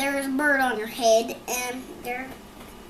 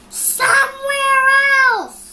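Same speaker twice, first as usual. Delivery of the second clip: higher, louder frustrated cry; exasperated outburst; 12 semitones higher, 11 dB louder than usual. Acted. Elephant crying out to Piggy where he wants the birds. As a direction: burst it out in exasperation.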